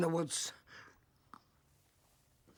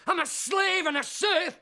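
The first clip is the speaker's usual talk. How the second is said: shouting; 5 semitones higher than usual. Acted. Ranting about married life.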